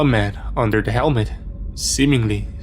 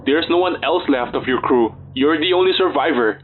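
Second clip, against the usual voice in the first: raised voice over chaos; shouting; 3 semitones higher than usual. Acted. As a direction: call it out firmly. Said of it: "I shouted".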